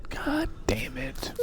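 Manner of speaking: slow, high whispered curse. Real, not acted. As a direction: breathe the curse out in exasperation. Frustrated at wrong map pick.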